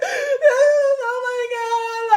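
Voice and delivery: long, high, loud wail; hammed-up sobbing, drawn right out; mock crying. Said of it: "I just literally started crying".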